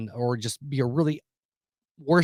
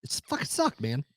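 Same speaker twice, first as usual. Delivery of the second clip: whispered; 7 dB quieter than usual. Real, not acted. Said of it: "telling friend it was awful".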